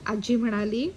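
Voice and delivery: ordinary delivery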